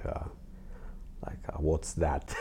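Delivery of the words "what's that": bewildered question through a chuckle; puzzled laugh. Retold or imitated. Artist recalling he'd never heard of art school, laughing. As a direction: ask it half laughing, clueless teen. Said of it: "And we were more like".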